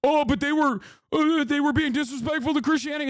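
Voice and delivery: high, quick mocking imitation; mock offended. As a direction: imitate someone pettily scandalized. Mock quote of offended objectors.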